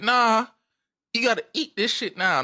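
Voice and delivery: a hint of a mother laying down the law; firm mom refusal. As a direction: refuse firmly, raising the pitch. Mom's refusal acted out.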